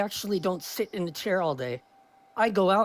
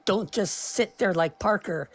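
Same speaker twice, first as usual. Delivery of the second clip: Jordan Peterson voice. Retold or imitated. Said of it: "when I get into his voice".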